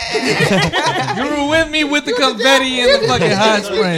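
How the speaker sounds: high, slow, laughing protest; broke pimp voice. Real, not acted. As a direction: pitch up, drag it out defensively. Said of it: "get that high-pitched voice out of nowhere".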